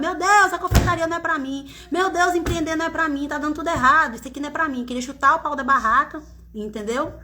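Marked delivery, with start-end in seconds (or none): 0.0-4.8 higher-pitched imitation of a despairing wail; mock desperate lament; retold despair. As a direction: act out your own past panic, pitched up. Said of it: "me desesperava".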